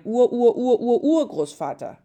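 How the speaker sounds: high, loud, laughing chant of Ur; laughing along. A narrator's reading. Maria joins Josef's counting, laughing loudly. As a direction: giggle through the string of Ur. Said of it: "Maria fiel lachend ein".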